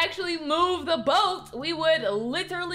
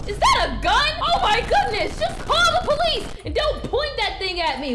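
panicked outburst; 5 semitones higher than usual. Acted. Stalker points a gun at her.

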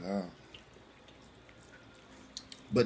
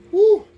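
hot-mouth woo; 10 dB louder than usual. Real, not acted. Spicy noodle burn.

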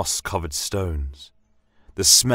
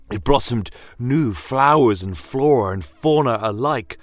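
rising, louder, higher with amazement; awed wonder; 6 semitones higher, 4 dB louder than usual. A narrator's reading. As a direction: let the wonder build and lift. Narrator awed by blooming magic forest.

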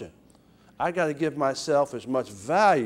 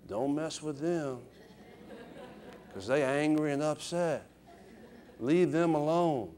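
hushed warning; 2 semitones lower, 8 dB quieter than usual. Acted. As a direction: quietly warn others off, spacing it out. Passing a quiet warning along.

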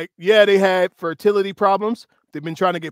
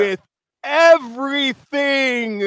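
slow, higher-pitched reading; slow and intentional; 6 semitones higher than usual. Shown as a demonstration. Reading on through her love note, slow and intentional. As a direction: draw out each word deliberately. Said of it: "read it slow and intentional".

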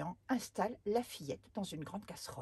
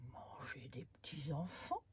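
whispered wonder; 4 semitones lower, 5 dB quieter than usual. Acted. Giant puzzles over eating children.

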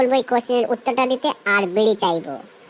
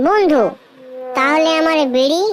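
anxious plea; 3 semitones higher, 3 dB louder than usual. Acted. Asking his friend for the promised bidi, pleading. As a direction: plead for what was promised.

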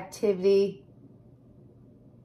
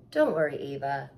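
reassuring; 6 semitones lower than usual. Acted. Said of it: "her mother reassured her".

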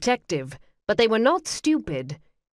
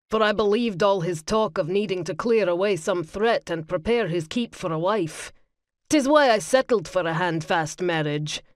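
lightly voiced older brother, firm and steady; a hint of a stern older brother laying out the plan; older brother Seymour.

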